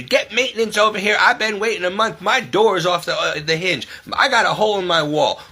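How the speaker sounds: lightly hammed-up whiny demand; mocking demanding tenant. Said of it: "you want us to come and fix it".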